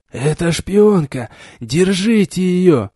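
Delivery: put-on old man's shout. A narrator's reading. Old man accusing, calling guards.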